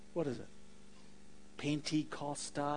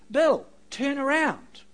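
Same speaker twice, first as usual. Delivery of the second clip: slow, louder call from behind; 7 semitones higher, 9 dB louder than usual. A narrator's reading. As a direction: call his name to make him turn. Voice calls to Bill.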